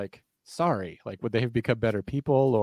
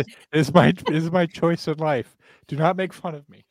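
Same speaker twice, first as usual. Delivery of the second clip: mock offended vampire; 5 semitones higher, 4 dB louder than usual. Host playing a vampire scolding his co-host, mock indignant. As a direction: pretend to be a touchy teen vampire, half-joking. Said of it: "can't take you seriously".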